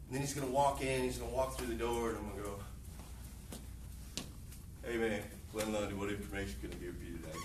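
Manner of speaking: low, quiet, listless delivery; unenthusiastic greeting. Acted. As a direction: mumble it low with zero interest. Mimics unenthusiastic greeting to customer.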